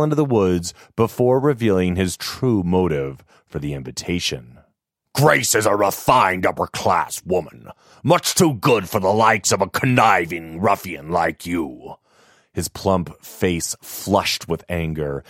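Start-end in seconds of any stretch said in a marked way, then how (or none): 5.1-11.9 lightly voiced haughty old man; pompous old father. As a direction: look down on the ruffian suitor. Father-in-law scorns suitor.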